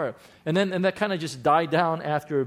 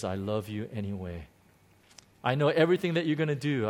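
gentle voice of Jesus; 5 semitones lower, 3 dB quieter, faster than usual. Retold or imitated. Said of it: "he says".

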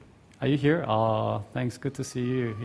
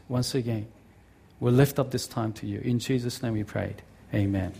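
earnest pastor's prayer, pleading then settling. Acted. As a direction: lift it up to God from the heart. Leads the congregation in prayer.

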